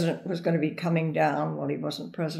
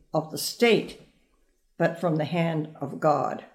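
reading JFK's speech. Shown as a demonstration. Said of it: "I just want to read you a couple of the snippets".

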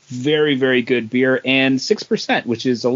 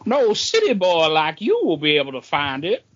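a lightly voiced, higher scoffing old local; 5 semitones higher than usual. Old local mocks lost city boy, lightly voiced. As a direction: sneer at the city boy a little.

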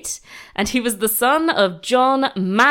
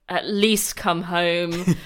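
lightly voiced pleading mum, slow; exasperated mum; 3 semitones lower, much slower than usual. Host voicing the mum begging her lovesick son, slow mock plea. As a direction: plead slowly, as a weary mother. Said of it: "his mum was like".

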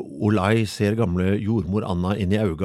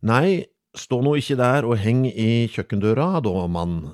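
scolding midwife; 3 semitones higher, 4 dB louder, slower than usual. Acted. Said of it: "sier hun".

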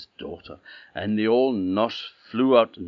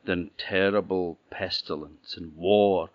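prophesying princess; 5 dB louder than usual. Acted. Princess foretells the choices.

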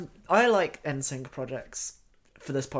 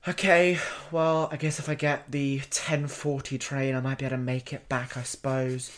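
grumpy sound tech; 3 dB louder than usual. Retold or imitated. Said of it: "so mad".

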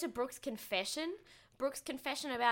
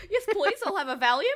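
imitating Brittany through laughter; giggling through the quote; laughing imitation; 10 semitones higher, 10 dB louder than usual. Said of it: "I'm gonna try and imitate her".

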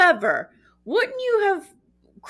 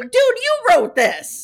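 loud, high, slow disbelief; dude, you WROTE this; incredulous shout; 13 semitones higher, 7 dB louder, slower than usual. Retold or imitated. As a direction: call him out, stretched and loud. Incredulous retort to writer.

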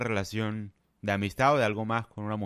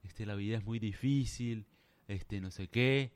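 softer, slow put-on self-pity; mocking sad man; 3 semitones lower, 5 dB quieter than usual. Mocking strangers who fake sadness to pretty women, soft slow whine. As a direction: whimper it out, milking sympathy. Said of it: "y dicen".

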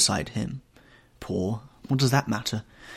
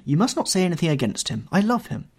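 high-pitched, fervent protest; exclaiming; 9 semitones higher than usual. A narrator's reading. Girl defends her beloved to her brother, exclaiming. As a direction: exclaim it high, climbing on the last words. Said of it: "she exclaimed".

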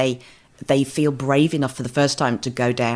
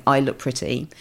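unused, cracking voice. Retold or imitated. Bride seeing herself in the mirror, dusty cracking voice. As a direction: let "I look pretty" come out rusty, as if never said before. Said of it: "in a voice that is unused and cracks slightly and is dusty".

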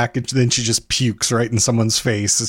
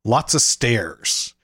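slow deadpan; much slower than usual. Retold or imitated. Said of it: "my friend Dale said".

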